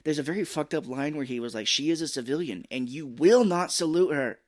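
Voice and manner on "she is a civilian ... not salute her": lightly acted stern officer, emphatic; stern order. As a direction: hammer out a mock-military order.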